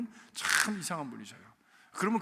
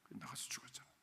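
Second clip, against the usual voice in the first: whisper; 6 semitones lower, 18 dB quieter than usual. Real, not acted. Repeats line in whisper.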